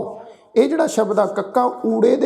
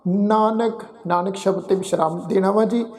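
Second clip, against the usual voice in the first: slow, measured scripture recitation; gurbani recitation; slower than usual. Acted. Granthi reciting Sukhmani Sahib to the sangat, slow and measured. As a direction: recite each phrase with pauses, devoutly.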